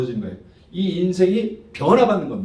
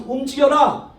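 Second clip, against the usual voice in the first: commanding; 8 semitones higher than usual. Retold or imitated. God's command quoted in sermon.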